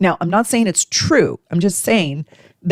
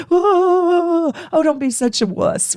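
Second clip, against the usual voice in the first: mocking scoff; 12 semitones higher than usual. Mocking the hurt friend.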